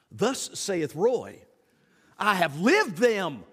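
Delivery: slow, solemn mock-biblical pronouncement; mock scripture. Preacher quotes himself as scripture, slow mock solemn. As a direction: intone it like prophecy, tongue in cheek. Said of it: "mock-biblical proclamation".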